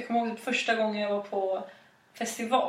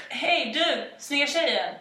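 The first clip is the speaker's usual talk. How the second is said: cocky guy catcall; 5 semitones higher, slower than usual. Pretend. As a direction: call to a passing girl like a smug lad. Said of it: "lite dryg kille".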